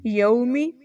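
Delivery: یومی with au glide; yaumi. Shown as a demonstration. Teacher giving correct یومی. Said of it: "یوم پڑھیں گے".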